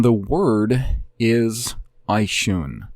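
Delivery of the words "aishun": "Aishun" sounded out slowly; Obri pronunciation. Shown as a demonstration. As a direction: say "Aishun" carefully, as eye-SHOON. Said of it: "I pronounce everything in Obri".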